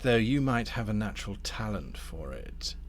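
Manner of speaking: deliberate, insinuating tempter; lightly voiced scheming Damnifer. Damnifer pitches a grafting scheme to Thorn, lightly voiced courteous schemer. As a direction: unveil the offer with relish. Game master plays Damnifer.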